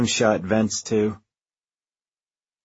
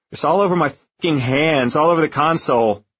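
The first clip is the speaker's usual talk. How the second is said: rising, louder panic; panicked; 4 semitones higher, 3 dB louder than usual. Acted. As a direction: voice climbing toward hysteria. Panicking over blood on hands.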